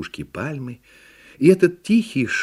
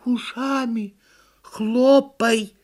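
high, deliberate turtle order; little turtle giving commands; commanding turtle; 13 semitones higher, 4 dB louder, much slower than usual. A narrator's reading. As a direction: order it word by word, louder at the end. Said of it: "приказала черепаха".

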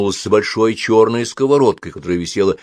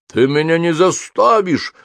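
slow, higher proud defiance; proud grating demon; 9 semitones higher, 4 dB louder than usual. A narrator's reading. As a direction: defy her like a proud fire demon. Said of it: "гордо проскрежетал огненный демон". (гордо и скрипуче)

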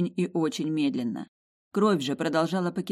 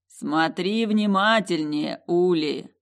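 booming ancient voice; 5 dB louder, much slower than usual. Acted. Voice of the ruby heart.

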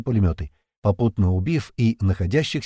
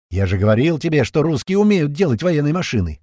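smug grin; 5 semitones higher, 4 dB louder than usual. A narrator's reading. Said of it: "усмехнулся Пьер".

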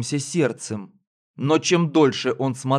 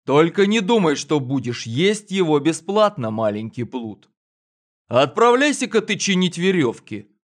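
raised stern voice of the drover; 4 semitones higher than usual. Acted. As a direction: scold the boy from above. Drover scolds the boy.

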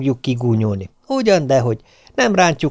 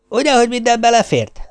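much higher, pleased with herself; triumphant; 10 semitones higher than usual. Acted. Wife after closing the bag, triumphant. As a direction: crow in triumph.

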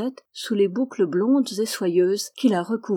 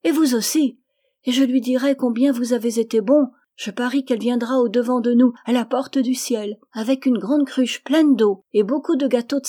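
put-on higher, louder childlike voice; happy, eager little girl; 4 semitones higher, 5 dB louder than usual. A narrator's reading. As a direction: chatter on like a delighted child.

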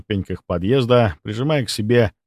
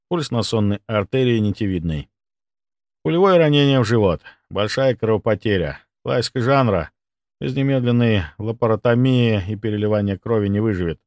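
ordinary delivery, nothing marked

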